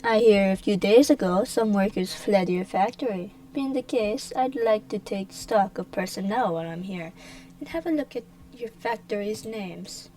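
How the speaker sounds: loud, lordly demand; imperious official. Acted. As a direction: press her like a suspicious inspector. Villain demands inspection.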